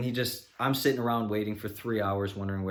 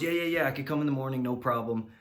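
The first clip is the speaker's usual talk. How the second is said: higher, fast, dismissive yeah-yeahs; mocking brush-off; 5 semitones higher than usual. Mechanic promising the annoyed customer to come tomorrow, mock brush-off. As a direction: rattle off empty promises.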